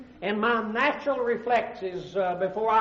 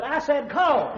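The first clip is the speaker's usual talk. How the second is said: firm command; 5 semitones higher, slower than usual. Acted. Doctor insisting more firmly.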